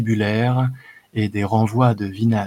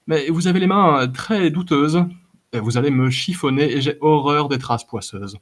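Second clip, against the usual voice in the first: lightly voiced fussy minstrel, a bit fast; a touch of prissy indignation; prim protest; 4 semitones higher than usual. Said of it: "L'air un peu pincé". (protestation pincée et légère)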